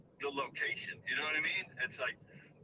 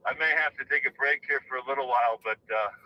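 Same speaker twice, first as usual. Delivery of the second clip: out of breath; 3 semitones lower than usual. Real, not acted. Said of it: "sorry I'm out of breath".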